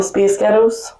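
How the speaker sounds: Scottish accent, Space Ghettos with short ee vowels; a girl group's name in Scottish. Shown as a demonstration. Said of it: "the Spice Girls in Scottish".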